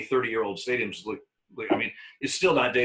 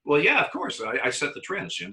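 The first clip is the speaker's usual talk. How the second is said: mock bravado; 5 semitones higher than usual. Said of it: "so I look down and go".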